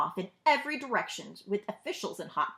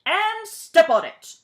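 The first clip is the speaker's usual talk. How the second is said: slow loud high roar; roaring order; 9 semitones higher, 10 dB louder, slower than usual. A narrator's reading. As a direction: bark the final order. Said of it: "he roared".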